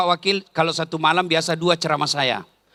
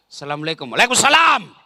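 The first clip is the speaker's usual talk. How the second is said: short, blunt, no-nonsense answer; firm greeting; 2 semitones lower, faster than usual. Shown as a demonstration. Wife with a firm husband answers the boss curtly. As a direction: clip it, firm and businesslike. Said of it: "Coba kalau suamimu tegas".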